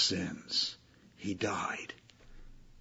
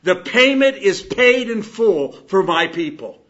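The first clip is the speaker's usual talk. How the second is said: raised, louder proclamation; crying out; 9 semitones higher, 13 dB louder, slower than usual. Acted. Resurrection announcing the debt is paid, crying out. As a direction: declare it like a public announcement. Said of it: "The resurrection cries out".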